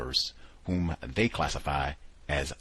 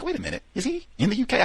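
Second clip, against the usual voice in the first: much higher, fast, mock alarmed double-take; sudden doubt; 4 dB louder, faster than usual. Host retelling his confused email mix-up, alarmed and fast. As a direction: catch yourself mid-thought, quick and high. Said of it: "So then I'm like".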